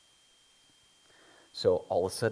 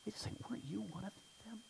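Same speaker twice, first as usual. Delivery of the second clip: much higher, fast, whispered accusation; servant girl; 13 semitones higher, 15 dB quieter, much faster than usual. Retold or imitated. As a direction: hiss it quickly as a suspicious girl. Servant girl questions Peter.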